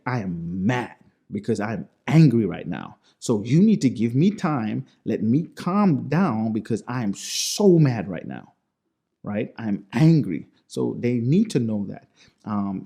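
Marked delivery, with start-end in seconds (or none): 0.1-8.5 emphatic mock anger, stressed words; acted anger. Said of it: "I'm gonna be mad". 9.2-10.5 louder, emphatic mock anger; acted anger. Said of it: "I'm gonna be mad".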